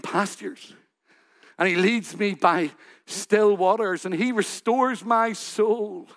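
starts very soft, almost whispered, then sincere and unhurried; heartfelt quiet recital. Retold or imitated. Old pastor reciting to the gathered community, hushed and sincere. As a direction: pray the psalm like you know its author. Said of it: "Why is it so different".

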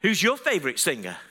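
cheeky high-pitched call on "Hey, mister"; girls calling out. Retold or imitated. Girls to a man on the platform, calling out. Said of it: "they said to me".

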